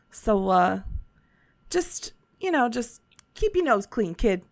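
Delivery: lightly voiced friendly old shopkeeper; a folksy merchant, easygoing; shopkeeper Schnick Tick.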